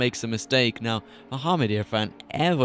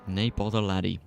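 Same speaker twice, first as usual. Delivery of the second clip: quiet Scottish accent; 3 semitones lower than usual. Shown as a demonstration. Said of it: "the only thing I know how to say in Scot".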